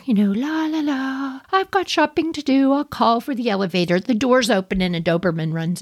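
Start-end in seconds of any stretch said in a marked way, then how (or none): 0.3-4.0 high, sing-song, oblivious neighbour; lightly voiced shopper waiting for the lift; carefree neighbour. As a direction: hum along without a care. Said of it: "You all imagine calling for an elevator".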